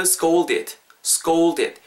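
"scolded" said crisply as scoul-did, long "ou"; syllable demonstration. Shown as a demonstration. Teacher reshapes the syllables for learners, "scolded" with a long "ou". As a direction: model "scolded" without extra Korean vowels. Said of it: "요렇게 삼음절로 바꾸신다고 생각하시고".

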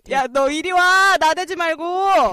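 loud, slow stern scold. Acted. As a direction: put her in her place. Sister scolding her sibling.

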